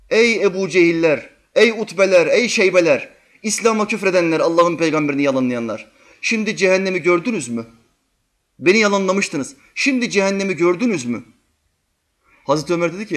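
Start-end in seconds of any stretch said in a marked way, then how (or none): 0.1-11.2 loud raised call to the dead. Retold or imitated. Prophet calling to the slain at Badr, raised voice. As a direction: call out to the fallen enemies. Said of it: "onlara seslendi".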